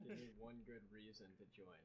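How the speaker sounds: mumbling his own line back through laughter; quiet giggling repeat; laughing self-mockery. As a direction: poke fun at what you just said, laughing.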